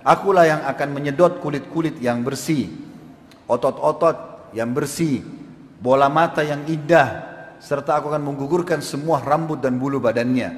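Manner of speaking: slow, weighty threat from the grave; lightly voiced talking earth, measured and ominous; the grave speaking. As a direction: spell out each threat deliberately, with pauses. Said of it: "tanah-tanah ini kalau bisa bicara".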